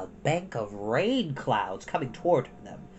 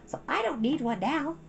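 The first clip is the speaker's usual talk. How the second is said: put-on high child's voice, a bit proud; little girl boasting to her teacher; self-important little girl; 11 semitones higher than usual. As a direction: say it like a proud small child showing off. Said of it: "a bit self-importantly".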